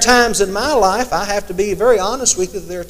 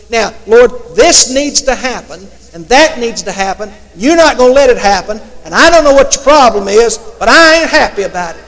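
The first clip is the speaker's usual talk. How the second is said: louder, a mock-indignant rant at God; indignant complaint; 6 dB louder than usual. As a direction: act out a grumbling prayer, half-joking. Retold angry complaint to God.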